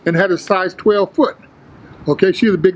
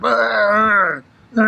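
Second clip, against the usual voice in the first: acted, drawn-out psych-up grunt; psyching-up growl; 3 semitones higher than usual. Lifter on the bench getting fired up, imitated grunts. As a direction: grunt as if firing yourself up. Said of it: "Getting myself all fired up".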